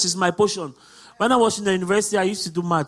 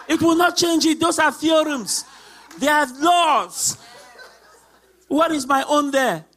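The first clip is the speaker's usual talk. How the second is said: laughing; 3 semitones higher than usual. Real, not acted. Laughing while preaching joy.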